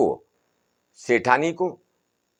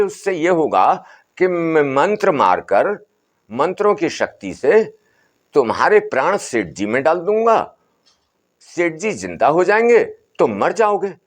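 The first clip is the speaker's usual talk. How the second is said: lightly raised, soothing holy man; a hint of an old sadhu calming the family; Baba's voice; 5 semitones higher than usual. बाबा मंत्र की बात. (बाबा की हल्की ऊँची, समझाती आवाज़)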